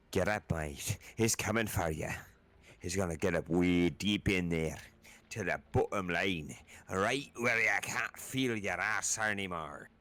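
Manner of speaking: put-on Scottish accent. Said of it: "then went Scottish".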